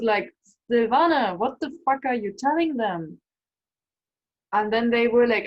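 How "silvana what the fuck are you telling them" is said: louder, mock-alarmed self-scolding; raised voice, alarmed at your own words; retold freak-out. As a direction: scold yourself in retold disbelief. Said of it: "I was freaking out".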